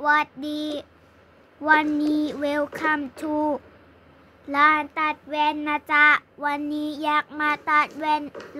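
a hint of a welcoming optician; shopkeeper. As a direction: greet customers like a friendly glasses seller. Shopkeeper greets customers.

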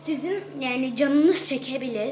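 talking while chewing gum; words round a piece of gum. Real, not acted. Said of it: "sakız çiğniyorum". (sakız çiğnerken konuşma)

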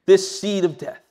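retold plea building to firm refusal; emphatic re-enacted prayer of defiance; pleading prayer. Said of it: "I began to plead and said".

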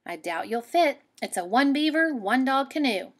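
put-on girl character voice. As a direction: tell the loon it won't fit.

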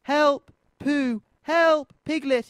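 high, loud storybook shout; shouted cry for help. A narrator's reading. Lost Rabbit calls his friends to save him, high shouting. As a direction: call out for rescue, each word pitched high. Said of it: "he shouted".

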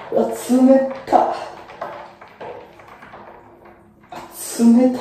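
sharp gasp at freezing water; in ice cold water. Real, not acted. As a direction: yelp from the cold plunge. (冷水に浸かって思わず声が出る)

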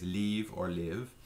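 "leave or live" drawn out slowly, each word clear; slow demo. Shown as a demonstration. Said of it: "It's pronounced both ways".

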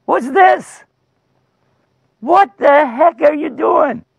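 incredulous giant. Acted. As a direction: shout in disbelief at a puny challenger. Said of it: "the giant went".

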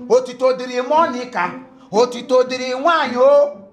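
loud, sarcastic hymn of praise; mock praise. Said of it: "So I would have sing your praise".

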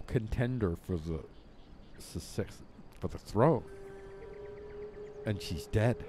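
low and soft, half to himself; grieving. Real, not acted. Father-ruler mourning his favorite daughter, quiet and low.

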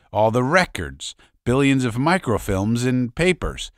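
a hint of a proud veteran holding court; Tolby boasting. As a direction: brag to the crowd about the old days.

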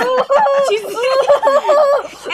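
high, loud mock wail; mock scream. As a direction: let out a long, high pretend shriek. Acts out screaming in the scene.

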